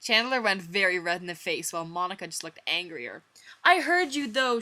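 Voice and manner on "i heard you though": high, loud mock shriek. Monica confronting the boys, a high loud shriek. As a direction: shriek it at him. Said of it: "she shrieked".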